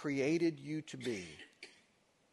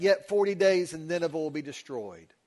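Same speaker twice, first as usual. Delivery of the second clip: raised, louder proclamation; crying out; 6 dB louder than usual. Retold or imitated. Jonah warning the city of Nineveh, crying out. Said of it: "then he cried out".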